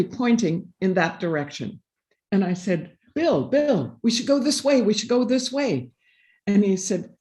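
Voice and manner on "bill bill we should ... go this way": eagerly urging him to follow; excited urging. Retold or imitated. To husband Bill, lost in the snowy forest: excited urging.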